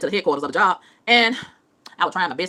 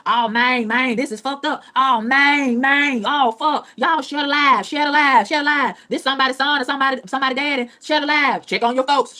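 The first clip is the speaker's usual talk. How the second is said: mocking a panicked bystander filming a crash, loud and high; hammed-up alarm, begging viewers to share the live; 6 semitones higher, 5 dB louder, slower than usual. Mocking people who film crashes, in a loud high alarmed voice. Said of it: "people love to go out there and record".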